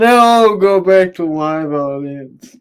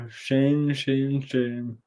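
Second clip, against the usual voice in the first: muttered mock shaming; 4 semitones lower, 9 dB quieter, slower than usual. Teasing absent friend, trailing repeat.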